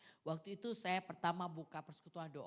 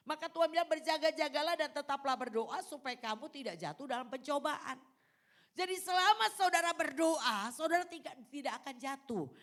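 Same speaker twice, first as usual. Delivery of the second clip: raised, high-pitched exhortation; pitched-up pulpit delivery; emphatic preaching; 7 semitones higher, 6 dB louder than usual. Real, not acted. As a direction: drive the scripture home to the congregation. Preaches at full force.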